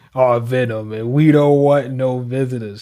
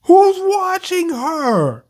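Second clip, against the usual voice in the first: mock calm; 10 semitones higher, slower than usual. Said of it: "You're just gonna say".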